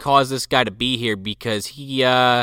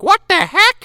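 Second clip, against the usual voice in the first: put-on high, louder startled girl; mock surprise; 5 dB louder than usual. Girl startled by the coin, high squeak. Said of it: "and she's like".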